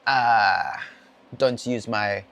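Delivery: slow, badly faked Irish-Scottish brogue; mock Irish-Scottish lilt, drawn out; terrible Irish-Scottish accent. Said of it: "terrible accent".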